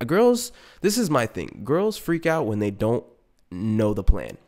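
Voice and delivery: ordinary talk, nothing marked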